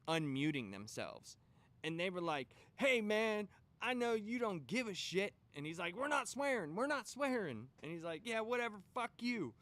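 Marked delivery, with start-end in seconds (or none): 2.8-5.3 loud, raised angry voice at the boss; angry coworker. Retold or imitated. Coworker yelling at the CEO on the call, angry. 5.9-7.7 higher, louder stern rebuke; stern scolding. Retold or imitated. CEO scolding angry employees, loud stern rebuke. 8.2-9.5 loud, higher contemptuous brush-off; angry dismissal. Retold or imitated. Coworker cursing the CEO, loud contempt.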